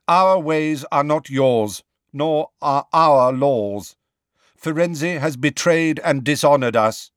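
proud centaur laying down the law; stern centaur. A narrator's reading. Centaur rebukes Hagrid.

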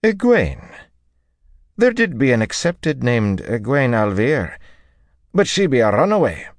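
very high, loud woman's character voice; high-pitched, disbelieving outburst; Teslin, indignant. Acted. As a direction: exclaim it high, insisting on the point.

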